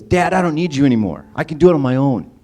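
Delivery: mock the boy brushing off his dad; defiant child. A son tells his father he's done, in a light defiant kid voice.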